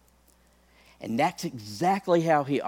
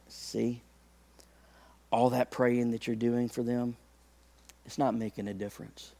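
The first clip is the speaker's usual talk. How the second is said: hushed, softer devil's voice; devil whispering doubt; 6 dB quieter than usual. Retold or imitated. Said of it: "he'll whisper to you and he'll say".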